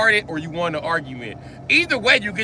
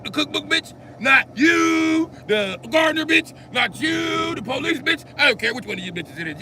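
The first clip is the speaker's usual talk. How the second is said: mock rapper rant; 5 semitones higher than usual. Rapper-style rant to women.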